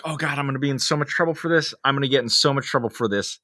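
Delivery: rapid, worried muttering to oneself; panicked retelling. Retold or imitated. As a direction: rattle it off in mild panic. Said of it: "And I panicked".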